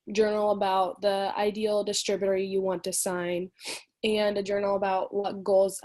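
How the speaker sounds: stuffy, short of breath; runny nose. Real, not acted. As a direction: talk through a runny nose. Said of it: "my nose is running so bad".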